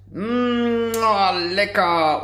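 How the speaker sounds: talking with a mouthful of hot food; eating while talking; mouth full. Real, not acted. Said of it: "Mit vollem Mund spricht man nicht". (mit vollem Mund sprechen)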